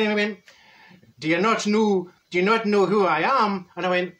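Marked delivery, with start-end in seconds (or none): 1.2-3.7 put-on uncertain stab at an Irish accent; hammy, wobbly Irish accent; botched Irish accent. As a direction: attempt an Irish accent and miss. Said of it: "What accent was that?".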